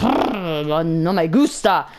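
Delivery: slow, drawn-out disgusted grumble; hammed-up seething; mock fuming. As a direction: growl it in comic displeasure. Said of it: "I was fuming".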